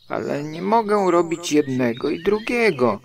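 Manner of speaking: high-pitched, distressed complaint; calling out. A narrator's reading. Stuck Pooh, torn both ways, calling out. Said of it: "wołał".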